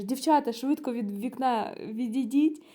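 mildly alarmed order to get away; frightened man. Retold or imitated. Frightened worker warns the girls painting by the window, urgently. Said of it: "у нього очі перелякані".

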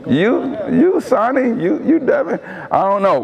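mock flustered spouse, pitch climbing on the names; a lightly voiced confused husband. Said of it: "They like".

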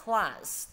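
CLASS ending in a clear hiss; final s. Shown as a demonstration. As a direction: sound the s that closes CLASS. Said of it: "vẫn đọc là s".

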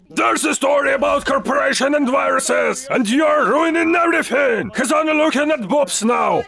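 indignant angry shouting; worked-up, ranting shout; mad. Acted. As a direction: shout it out as a furious complaint. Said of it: "Oh, don't be mad!".

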